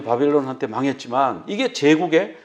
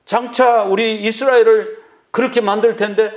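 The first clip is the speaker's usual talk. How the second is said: raised, pressing questions to God; preacher voicing Jonah's outrage, higher; indignant protest; 5 semitones higher than usual. Jonah protesting to God, indignant and raised. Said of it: "막 이러면서".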